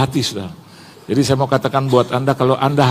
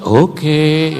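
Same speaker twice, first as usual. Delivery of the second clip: drawn-out winded acceptance; catching breath; 3 semitones higher, 4 dB louder than usual. Retold or imitated. Winded pastor agrees to keep climbing, drawn-out mock breathlessness. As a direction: act out a reluctant, breath-saving reply. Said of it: "saya lagi atur nafas".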